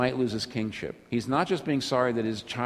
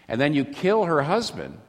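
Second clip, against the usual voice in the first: higher, louder, incredulous accusation; indignant disbelief; 9 semitones higher, 4 dB louder than usual. Retold or imitated. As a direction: throw the charge at David in outrage. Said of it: "a lot of people say".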